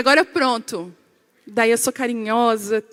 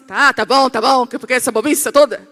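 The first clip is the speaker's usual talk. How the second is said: loud, impatient brush-off; mock brusque; 6 dB louder than usual. Wife joking with husband who wants affection, brusque. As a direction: act out rebuffing affection, pushing the words out. Responde brusca ao pedido de carinho.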